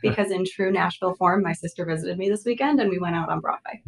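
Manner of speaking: creaky vocal fry after a night out. Real, not acted. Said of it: "a little bit of vocal fry".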